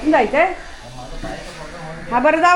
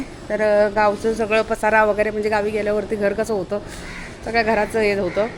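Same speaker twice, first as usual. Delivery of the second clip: lower, softer talk to the camera; vlog outro; 4 semitones lower, 5 dB quieter than usual. Acted. Woman closing her vlog to her viewers, lower and softer. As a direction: wrap up the video for viewers.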